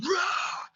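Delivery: mock roar, held back; imitated roar. Director imitates the roar in the music, restrained roar. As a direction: give a restrained roar as a cue. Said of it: "then we get a roar".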